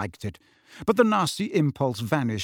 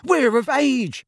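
high, loud drawn-out protest; bellowing; 12 semitones higher, 6 dB louder, slower than usual. A narrator's reading. Twins protesting being sent out, bellowing. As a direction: bellow it slowly in outrage. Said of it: "Fred and George bellowed together".

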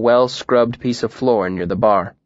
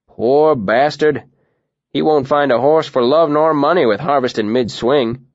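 sympathetic; 3 semitones higher than usual. Acted. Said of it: "sucked his teeth sympathetically".

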